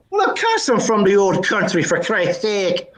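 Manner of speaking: lightly acted Irish drinker; reply in a mild Irish brogue, drawing out the end. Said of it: "a bit of a brogue".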